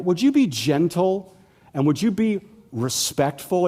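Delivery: slow, gentle ask; gentle plea. Acted. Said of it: "No, he says".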